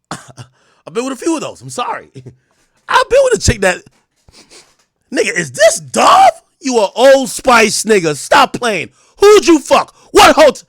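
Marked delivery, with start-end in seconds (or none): 5.1-10.6 high, loud and slow accusing shout; accusing girlfriend yell. Retold or imitated. Jealous girlfriend smelling soap on him, loud accusing yell.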